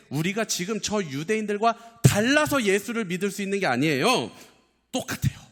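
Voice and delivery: high-pitched sermon insistence; urgent pulpit correction; emphatic preaching. Real, not acted. Preacher at full force.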